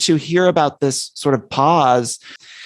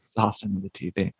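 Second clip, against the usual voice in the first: mock mother; 5 semitones lower, 10 dB quieter than usual. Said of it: "my mother would say".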